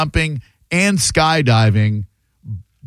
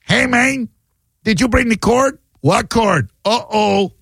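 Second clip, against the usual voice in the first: higher, lightly voiced South American accent for a bungee crew; mock South American accent; 8 semitones higher than usual. Host mocks the bungee crew, mock South American accent. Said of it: "Portuguese sounds as opposed to".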